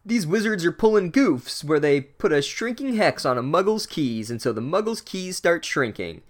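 lightly voiced grumbling sitcom dad; mock exasperated rant; complaining dad. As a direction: gripe like a dad home from work. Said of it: "he complains about his work".

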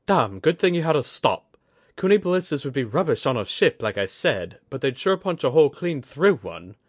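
put-on a gruff, cocky older woman weighing weapons; Kudaka's rough voice.

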